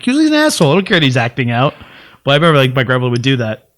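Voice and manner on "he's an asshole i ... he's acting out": emphatic outburst. Retold or imitated. Kid insisting to grandmother.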